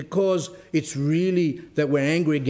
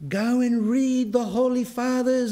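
retold scream; 9 semitones higher than usual. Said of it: "And she was screaming".

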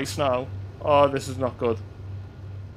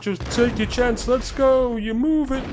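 hyped cheering; 10 semitones higher, much slower than usual. Real, not acted. Cheering himself on.

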